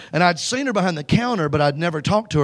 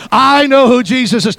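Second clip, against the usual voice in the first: proclaimed aloud; 7 semitones higher, 9 dB louder than usual. Shown as a demonstration. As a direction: proclaim it to the whole room. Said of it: "Come on, say it".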